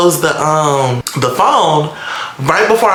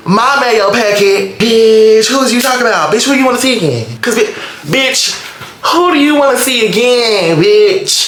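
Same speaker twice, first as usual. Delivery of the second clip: furious rant; 7 semitones higher than usual. Real, not acted. Girlfriend yelling at the girl texting her man, furious. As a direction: tear into her.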